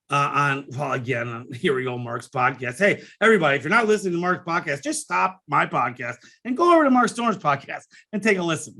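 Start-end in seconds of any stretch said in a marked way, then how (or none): 2.8-8.7 mock plug. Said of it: "No, I'm kidding".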